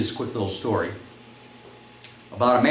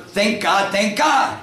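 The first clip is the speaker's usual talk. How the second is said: raised, higher-pitched call to the horse; louder call; 7 semitones higher, much slower than usual. Acted. Man urging his horse on to a trot, louder call. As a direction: call it out a little bit louder. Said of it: "he shouts a little bit louder".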